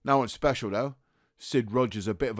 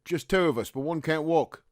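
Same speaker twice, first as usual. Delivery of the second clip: raised, higher calling voice; calling back; 6 semitones higher than usual. Acted. Trapped soldier answers the rescuer, calling back. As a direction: call up out of the trench.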